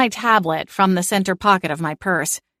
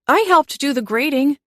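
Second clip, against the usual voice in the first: put-on young cat voice; 8 semitones higher than usual. A narrator's reading. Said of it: "Checkers chimed in".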